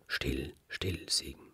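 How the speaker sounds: hushing whisper; whispered hush from the sheep. A narrator's reading. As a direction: shush him softly. Sheep hushes Siegen.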